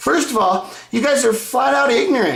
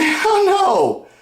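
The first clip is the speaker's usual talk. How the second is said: laughing shout; 10 semitones higher than usual. Real, not acted. Laughing rebuttal of fans.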